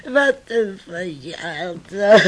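traag, half snikkend; huilerige klacht. Acted. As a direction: jammer het langzaam uit. Moeder klaagt na ruzie. (moeder klaagt huilend over haar verjaardag)

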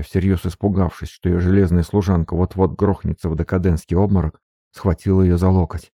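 usual speaking voice

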